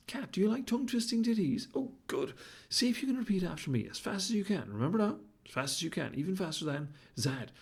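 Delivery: a showy baboon setting a challenge; excited baboon. Acted.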